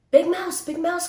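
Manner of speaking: high, loud call for Big Mouse; little mouse calling for help. A narrator's reading. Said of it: "called Little Mouse".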